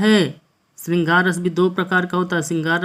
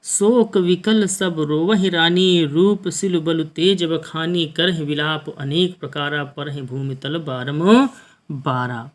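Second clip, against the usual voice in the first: slow, measured verse recital; poem recitation; slower than usual. Acted. Teacher reciting a Hindi verse to students, slow poem recitation. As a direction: draw each line out like a poet on stage.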